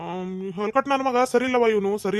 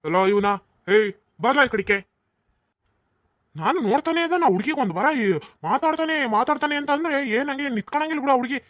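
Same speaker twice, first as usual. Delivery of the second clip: raised, scolding rant; angry tirade; 2 semitones higher than usual. Acted. Father berates his drunk son, angry. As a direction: tear into the wayward son.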